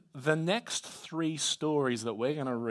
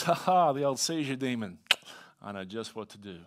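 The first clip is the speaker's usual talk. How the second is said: overconfident Andrew; 3 semitones lower than usual. Acted. Andrew sizing up the demon, playfully overconfident. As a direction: open big, settle into smug assurance. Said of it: "Do they start overconfident".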